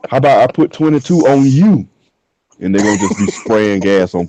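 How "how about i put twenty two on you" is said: a bit higher, louder taunt; mock gas attendant. Attendant taunting a customer, higher and louder.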